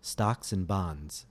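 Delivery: "and" said as a quick n, stocks 'n bonds, slowly; reduced and. Shown as a demonstration. Teacher gives a model phrase to repeat, stocks 'n bonds. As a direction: slur "and" to just n. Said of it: "listen and repeat ... the reduced form n".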